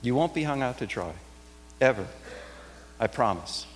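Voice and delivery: soft, gentle promise of comfort; reassuring. Shown as a demonstration. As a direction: comfort someone who fears being left alone. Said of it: "It's more a voice of reassurance to you".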